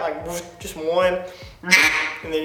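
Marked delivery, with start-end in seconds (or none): 0.3-0.6 one soft honk; one quack only; single quack. Shown as a demonstration. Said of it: "you got a quack".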